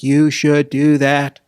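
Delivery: slow, emphatic political exhortation; Kennedy. Acted. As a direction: lightly put on a statesman's urging. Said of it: "do my best Kennedy impersonation".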